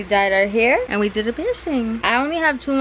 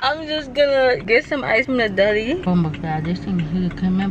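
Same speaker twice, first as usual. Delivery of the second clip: talking with a swollen tongue. Real, not acted. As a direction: speak around a sore, swollen tongue. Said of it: "I feel like I sound mad weird".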